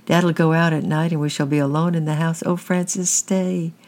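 put-on high, tearful little-girl begging; sobbing plea. A narrator's reading. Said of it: "she sobbed".

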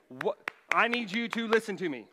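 loud, insistent parent demand; exasperated parent finally getting through; in-your-face parent. Retold or imitated. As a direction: get in their face and make them listen. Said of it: "get up almost in their face and shake 'em and just say".

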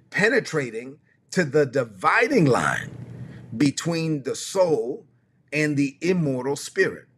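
slow, weighty Bible reading with long pauses; czytanie Pisma. Acted. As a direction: let each phrase land on its own, drawn out. Reads Amplified Bible aloud slowly.

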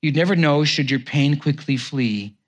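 measured, heartfelt reading of a poem. Acted. Pastor reading a poem on waiting to the congregation, heartfelt.

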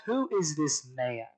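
slow question, "man" drawn out; "man" held long as the point of the question; stress on "man". Retold or imitated. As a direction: lean on the word "man" and stretch it. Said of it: "the emphasis on the word man".

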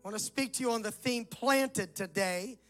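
rough, hollow voice like inside a barrel. Real, not acted. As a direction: speak with a rough, boomy barrel sound. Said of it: "My voice is rough today. I know I sound like I'm in a barrel".

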